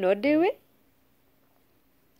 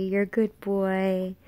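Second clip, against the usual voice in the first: soothing praise. Real, not acted. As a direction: reassure the pup gently. Praising the dog.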